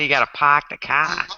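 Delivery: Boston accent with dropped R's in park and car. Shown as a demonstration. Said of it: "and then Boston".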